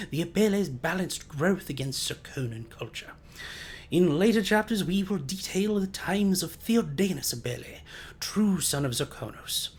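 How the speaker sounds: measured storyteller read of a history; formal book reading. Acted. Streamer reads an in-game history book aloud, formal narration. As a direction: read it like a grand chronicle.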